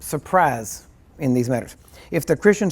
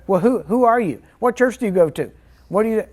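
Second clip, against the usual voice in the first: nosy interrupter; 6 semitones higher than usual. Pretend. Friend interrupts with questions.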